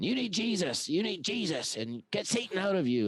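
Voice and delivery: retelling a girl yelling at the homeless, in a high mock yell; mock street-preacher yell. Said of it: "she's yelling at people saying".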